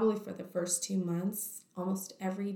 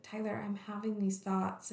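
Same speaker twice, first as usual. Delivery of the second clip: whispered; 6 dB quieter than usual. Retold or imitated. Confessing to husband.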